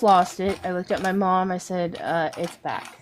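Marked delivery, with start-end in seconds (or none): 2.0-3.0 quiet, choked retelling of the news; softly, as if about to break down; mild hint of crying to her mom; tearful. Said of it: "And I just bawled".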